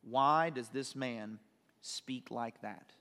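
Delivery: slow, low, measured pondering; questioning inwardly. Acted. Scribes questioning Jesus in their hearts, slow and low. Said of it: "questioning in their hearts".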